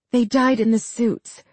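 lightly hoarse voice. Acted. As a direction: say it with a touch of hoarseness. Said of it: "she said hoarsely".

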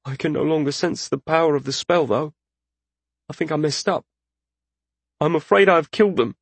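high, anxious spellcaster; worried journeyman mage. Acted. Journeyman fears he killed his subjects.

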